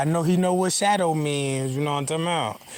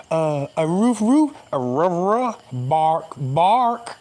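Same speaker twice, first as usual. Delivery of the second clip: dog barking again; slower than usual. Shown as a demonstration. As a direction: bark out a dog sentence. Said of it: "Somebody just tell me what I just said".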